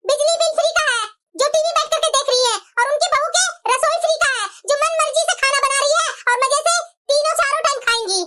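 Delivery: indignant rant, pitched a little high; angry complaint. Acted. Daughter rants to her mother about freeloading relatives, angry complaint. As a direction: protest crossly about freeloading guests. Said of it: "इतना गुस्सा क्यों हो रही है?".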